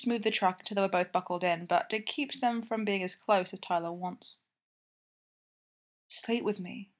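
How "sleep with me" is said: whispering. A narrator's reading. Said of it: "Tyler whispers".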